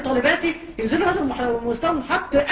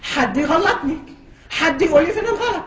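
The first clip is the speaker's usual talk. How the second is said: retold cry out; 2 semitones higher, slower than usual. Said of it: "بصرخ وبقول لهم".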